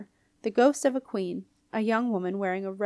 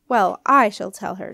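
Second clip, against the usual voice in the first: snapped; 8 dB louder than usual. A narrator's reading. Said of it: "snapped Queen Matilda".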